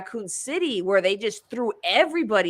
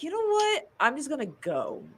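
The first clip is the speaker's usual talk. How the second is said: mock fed-up quote; 5 semitones higher, 5 dB quieter than usual. Imagined quitting quote.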